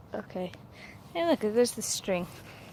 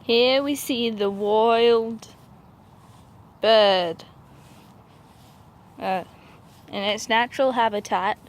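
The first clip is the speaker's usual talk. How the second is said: nature documentary; 3 semitones lower than usual. Pretend. Mock wildlife narration.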